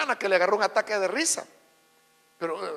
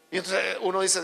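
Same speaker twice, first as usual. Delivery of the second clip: ordinary talk, nothing marked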